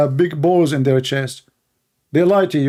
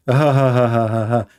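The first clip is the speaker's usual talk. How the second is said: mock laugh; 5 semitones lower than usual. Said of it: "he's laughing like this guy".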